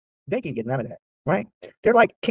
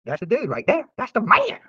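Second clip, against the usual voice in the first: high booming mock voice of God; 7 semitones higher, slower than usual. Vlogger voicing God choosing him, mock proclamation. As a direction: proclaim it like a heavenly choice. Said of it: "God looked down and said".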